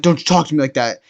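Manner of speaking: mildly heated retold warning; angry warning. Boyfriend warns the guy talking to his girl, mock angry warning. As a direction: act out a boyfriend who won't be talked back to.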